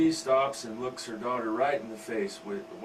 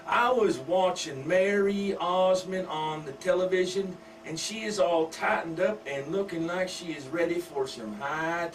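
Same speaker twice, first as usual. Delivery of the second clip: raised, drawling country wife voice; 4 semitones higher than usual. Acted. Wife gossiping to husband.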